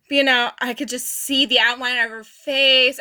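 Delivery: ordinary delivery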